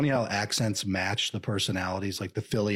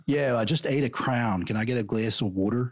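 put-on Philly accent. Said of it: "It's a weird accent in Philly".

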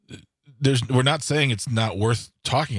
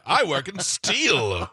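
put-on old-timey voice; 5 semitones higher, much slower than usual. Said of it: "I'm using that voice 'cause it's an old-timey voice".

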